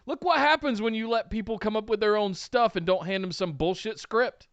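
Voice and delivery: high, bubbling delight; gushing praise. Real, not acted. Cohost raving to his partner about the skits, high and excited. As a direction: rave about it like a fan. Gushing over the comedy segments.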